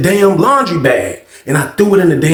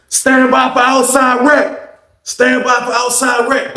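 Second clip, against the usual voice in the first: officer announcement; 8 semitones higher, slower than usual. Retold or imitated.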